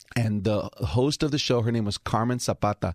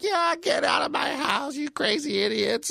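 grandma yelling. Retold or imitated. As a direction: throw them out like a fed-up grandma. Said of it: "my grandma's like".

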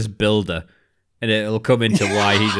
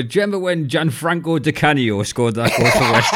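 higher, louder, laughing through the fake name mix-up; deliberately mangle it like a clueless fan; mock wrong-name trivia; 5 semitones higher, 3 dB louder than usual. Parodying his cohost's name mistake, laughing mock question. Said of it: "That's like if I go".

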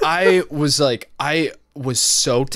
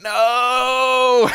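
higher, laughing no; 10 semitones higher, 5 dB louder than usual. Retold or imitated. To the mom about a license, laughing no. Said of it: "I was like".

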